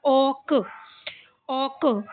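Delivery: ऑक with a long open o and released k; sounding out. Shown as a demonstration. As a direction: repeat ऑक as a separate syllable, pausing between. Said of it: "क्या हो जाएगा?".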